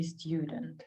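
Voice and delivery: "student" with a British stjudent glide. Shown as a demonstration. Teacher giving the British version for learners. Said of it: "British would be".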